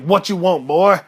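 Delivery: curt, irritated father, loud on the last word; mad Papa Bear. Acted. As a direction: demand it of your son impatiently. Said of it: "'Cause daddy's mad".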